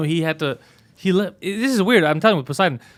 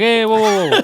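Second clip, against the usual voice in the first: higher, louder mock halting call; retold protest; 6 semitones higher, 6 dB louder than usual. Man stopping someone cutting the line, retold protest. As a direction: stop a line-cutter, lightly acted.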